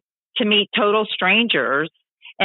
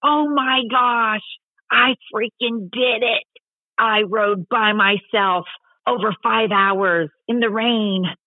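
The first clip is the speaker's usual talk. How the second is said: slow, higher, awed retelling of a feat; retold tearful triumph; 4 semitones higher, slower than usual. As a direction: draw it out, reliving the proud moment. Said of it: "I'm crying 'cause I'm like".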